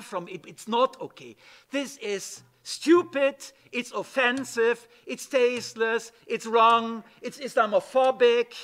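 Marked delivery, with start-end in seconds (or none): 1.7-8.5 forceful condemnation. Real, not acted. Speaker condemns the film forcefully.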